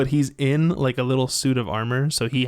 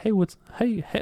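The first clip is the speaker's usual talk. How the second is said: cute little put-on New Zealand accent; 5 semitones higher than usual. Talking about a movie character they love, the speaker quotes Korg in Korg's New Zealand accent. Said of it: "he's got that cute little like New Zealander accent".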